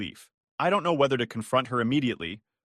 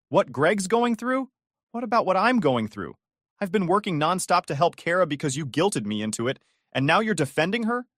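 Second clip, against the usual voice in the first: indignant outburst; 6 semitones higher than usual. Acted. Outburst at parents.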